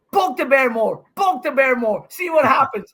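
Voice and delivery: fired-up taunt. Retold or imitated. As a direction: throw it back at him, fired up. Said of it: "he wins a point and goes".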